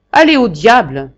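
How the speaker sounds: the marquis shouting after his departing secretary; furious dismissal. Acted. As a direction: send him to the devil.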